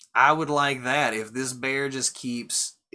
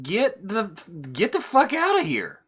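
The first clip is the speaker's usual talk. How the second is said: high-pitched, louder mock outrage; pissed off; 10 semitones higher, 5 dB louder than usual. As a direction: throw them out in a raised, angry voice. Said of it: "she's pissed".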